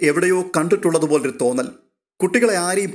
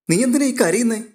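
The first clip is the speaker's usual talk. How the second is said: higher, startled concern; surprised question; 8 semitones higher than usual. Acted. Alina, startled to find her sister crying, asks in surprise. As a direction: ask it in sudden alarm, pitched up. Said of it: "അമ്പരപ്പോടെ ചോദിക്കുകയാണ്".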